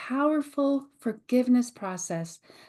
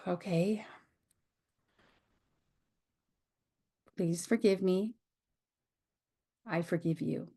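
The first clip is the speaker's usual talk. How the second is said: soft forgiveness prayer; 3 semitones lower, 5 dB quieter than usual. Pretend. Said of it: "I can immediately go to".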